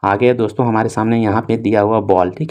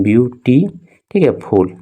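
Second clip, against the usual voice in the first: slow reading; 2 semitones higher, slower than usual. Shown as a demonstration. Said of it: "इस तरह से आपको".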